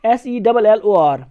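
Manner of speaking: slow letter-by-letter dictation; slow teacher spelling. Shown as a demonstration. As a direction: spell each letter slowly. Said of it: "British English में हम लिखते हैं".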